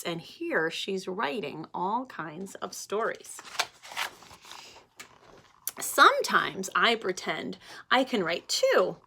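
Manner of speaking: slow, lilting storybook reading; gentle storybook voice for children. Acted. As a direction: read it aloud to a class of little kids. Reads picture book to class.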